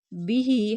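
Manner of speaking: बिही with a long held ही; drawn-out ending. Shown as a demonstration. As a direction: stretch the last vowel of बिही. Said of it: "खींच कर पढ़ेंगे". (बिही, ही खींच कर)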